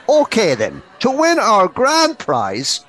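big booming radio host voice; booming prize announcer. Retold or imitated. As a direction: announce it like a game show host. Radio presenter reads prize question.

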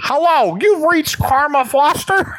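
high, bright recorded message voice; voicemail greeting voice. Pretend. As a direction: sound like an answering machine.

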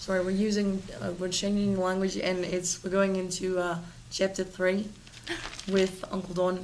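put-on Australian accent, slightly halting. Correcting the segment intro for co-host, Australian accent. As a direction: keep up the Australian accent while correcting yourself. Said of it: "Can you use that accent".

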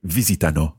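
visitano as four quick notes led by VI; rhythmic model of VI-si-ta-no; four even semiquavers. Shown as a demonstration. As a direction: keep vi-si-ta-no even, stressed at the front. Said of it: "It's four semiquavers".

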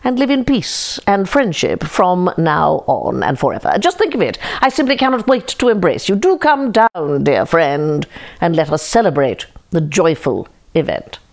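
a crafty fox laying it on thick; sly fox. Acted. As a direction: coax the chicken down like a smooth fox. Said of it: "declared the fox".

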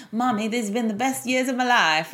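put-on American accent. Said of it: "like, in an American accent".

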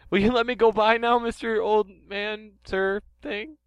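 a flustered scientist knocked over, squeaking; Professor Sycamore voice. Acted. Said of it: "Hi, I'm Professor Sycamore".

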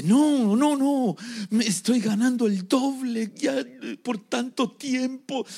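happy protest. Acted. Happy man rebuffs the demon.

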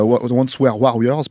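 slow, careful French-accent retry of Once Were Warriors; corrected French-accented English. Real, not acted. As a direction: fix the title slowly, still in a French accent. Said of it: "avec mon superbe accent".

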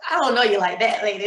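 amused, laughing through it; lightly mocking a stranger's offer with a laugh; laughing inner retort. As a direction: inner thought laughed out to the listener.

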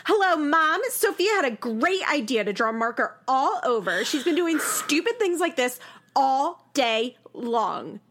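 mock whiny phone call to mom, going tearful at the end; hammed-up teary complaint to mom; Farrah's voice. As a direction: imitate her complaining to her mother, slowing into a fake cry. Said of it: "I wanna do Farrah's voice when she does this".

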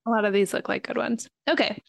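talking through a mouthful of cookie; words around a bite of Oreo; eating an Oreo. Real, not acted. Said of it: "I'm eating an Oreo".

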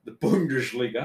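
"Bundesliga" with German oo and sh; German pronunciation. Shown as a demonstration. Co-host repeats the league in German style. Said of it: "Nice accent".

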